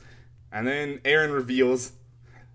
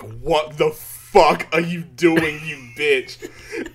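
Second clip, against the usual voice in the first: drawn-out, louder indignant swearing; slow incredulous outburst; 3 dB louder, much slower than usual. Retold or imitated. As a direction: spell out every word, outraged. Crowd's reaction, retold comic.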